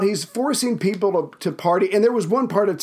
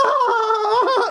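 shrill sitcom laugh-track whoop, much higher; laugh track guffaw. Retold or imitated. Imitating a sitcom laugh track, a canned shrill whoop. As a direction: mimic a canned audience laugh. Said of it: "over-the-top, not relative laughter".

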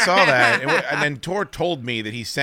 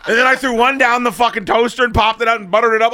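laughing; 10 semitones higher, 5 dB louder than usual. Real, not acted. Laughing through his cinnamon butter story.

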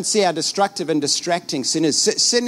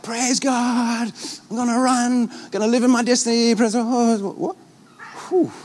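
fired-up believer; 5 semitones higher than usual. Retold or imitated. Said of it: "they're like".

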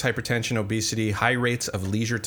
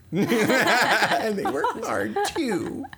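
slow, laughing repeat; 12 semitones higher, much slower than usual. Real, not acted. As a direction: chuckle through the words. Repeats co-host's complaint, laughing.

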